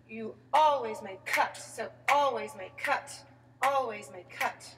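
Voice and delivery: always leaned on, slow and rising; teacher stressing always for the student. Shown as a demonstration. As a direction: lean into the word always, drawn out. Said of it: "Put the emphasis on that".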